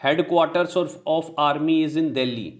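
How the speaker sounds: slow, deliberate dictation; teacher dictating slowly; slow example sentence. Shown as a demonstration. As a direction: read it out word by word. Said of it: "is भी बोल सकते हो".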